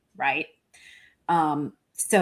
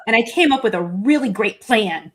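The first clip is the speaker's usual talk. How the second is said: louder, hammed-up pride; mock boasting; 3 semitones higher, 5 dB louder than usual. Host playing the woman with her plan, mock boasting. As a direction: boast in her place, tongue in cheek. Continuing the mock first-person quote.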